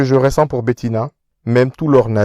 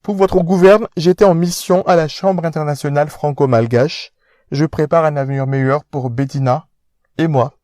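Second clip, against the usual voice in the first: pompous aristocrat lecturing; posh fiancé scolding; 5 semitones higher than usual. Acted. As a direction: talk down to him.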